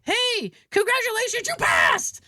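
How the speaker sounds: bright examiner calling out good news; cheery announcer. Retold or imitated. Examiner cheerfully telling her she passed.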